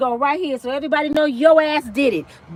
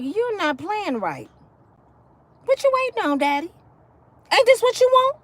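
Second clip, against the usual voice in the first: mock seductive taunt; 6 semitones higher than usual. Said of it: "play along with that game".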